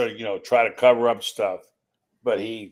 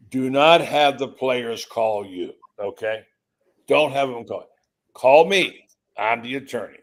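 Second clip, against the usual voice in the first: firm retold instruction; 3 dB louder than usual. Attorney tells the coach who takes players' calls, firm and deliberate. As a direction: lay it down firmly, punching the key command.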